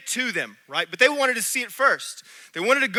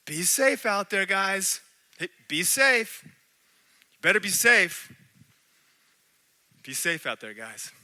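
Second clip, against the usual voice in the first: mock caution; 3 dB quieter, slower than usual. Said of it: "the most phrase I heard from people".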